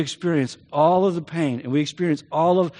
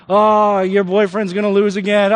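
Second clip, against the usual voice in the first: taunting friend; 4 dB louder than usual. Retold or imitated. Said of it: "he's just running his mouth".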